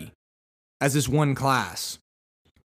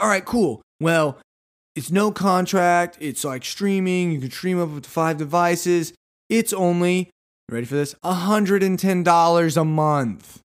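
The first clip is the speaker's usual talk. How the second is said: upbeat saleswoman; 4 semitones higher, 3 dB louder than usual. Retold or imitated. Saleswoman quoting the price to the shopper, high and upbeat. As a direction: sell it warmly. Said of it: "And she's like".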